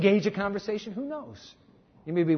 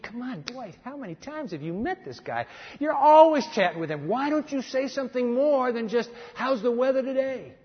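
teasing scold; 5 semitones higher than usual. Pretend. Preacher mock-scolding Dwight.

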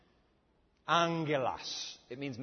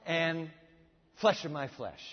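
awestruck cry, slow and raised; 4 semitones higher, 5 dB louder, slower than usual. Acted. Adam sees Eve for the first time, amazed cry. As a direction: exclaim it in drawn-out amazement. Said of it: "you remember he cries out".

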